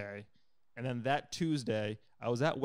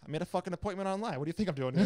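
higher, exasperated comeback, laughing at the end; indignant retort; 6 semitones higher than usual. Retold or imitated. Telling the urgent care guy off, indignant. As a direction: snap back in disbelief.

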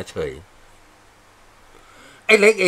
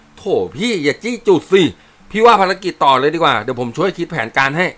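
embarrassed private; 5 semitones higher, 5 dB louder than usual. Acted. Private dodges teasing.

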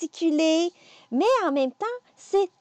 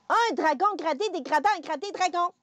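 "Un dragon gradé dégrada un gradé dragon" said faster; a bit faster; 4 semitones higher than usual. Shown as a demonstration. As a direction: quicken through "dégrada un gradé". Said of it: "Un petit peu plus vite".

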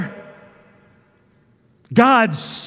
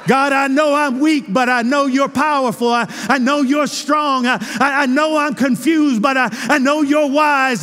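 acted prayer cry. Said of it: "He's calling out to the all-wise".

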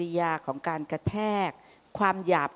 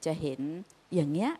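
gentle sincere plea; 4 dB quieter than usual. Retold or imitated. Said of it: "มีลีลาที่พูดว่า".

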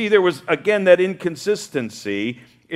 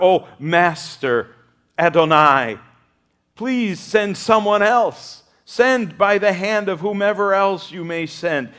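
pleading Moses; 3 semitones higher than usual. Acted. Moses begging to be excused.

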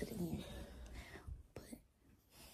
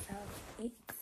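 whispering; 10 dB quieter than usual. Real, not acted. Late night, others asleep.

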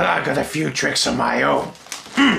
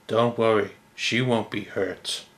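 reassuring; 4 semitones lower, 5 dB quieter than usual. Acted. Calm voice reassures.

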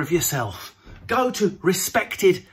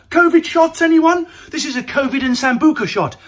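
barman call; 7 semitones higher, 5 dB louder than usual. Acted. Hawking shots at a party.

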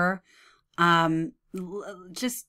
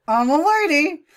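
high, loud mock lady voice; parody; 7 semitones higher, 6 dB louder than usual. Commentator improvising a parody, loud mock lady voice. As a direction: declare it in a hammed-up lady voice. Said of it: "come up with parodies".

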